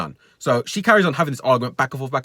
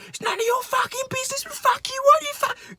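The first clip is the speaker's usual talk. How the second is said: mock angry outburst; 3 dB quieter than usual. Woman snapping at the man.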